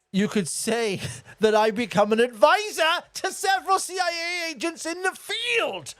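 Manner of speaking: Seagal. Retold or imitated. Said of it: "Seagal's claim to".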